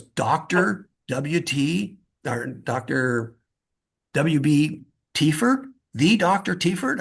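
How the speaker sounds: slow, rising, awed voice; mock amazement. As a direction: stretch each name out in disbelief. Dean amazed at famous uncle.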